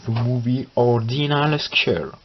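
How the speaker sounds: slow English title in a French accent. Real, not acted. Vlogger reads a film title to viewers, French-accented English. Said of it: "magnifique accent anglais".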